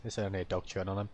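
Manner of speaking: brushed off quickly, as no big deal; quick, casual self-reassurance; dismissive thought. Retold or imitated. Rider recalling underestimating the dog, dismissive. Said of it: "I was thinking".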